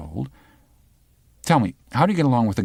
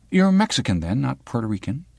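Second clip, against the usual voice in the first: lightly raised, needling reporter voice; a hint of a sharp young reporter; the girl from the news; 5 semitones higher than usual. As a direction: probe him like a pushy journalist.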